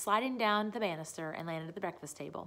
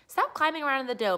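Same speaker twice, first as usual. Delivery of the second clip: louder, fast scolding; crossly; 6 semitones higher, 6 dB louder, faster than usual. A narrator's reading. Pippi scolding Mister Nielsen, a touch cross. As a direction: scold the monkey sharply. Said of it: "she said crossly".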